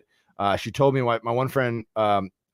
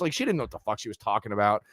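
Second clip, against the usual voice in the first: normal talking voice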